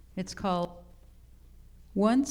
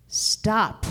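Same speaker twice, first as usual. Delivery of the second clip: firm, raised call to halt; sudden stop; 3 semitones higher, 5 dB louder than usual. A narrator's reading. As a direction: cut the quarrel short, louder. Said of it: "the argument grew louder and louder".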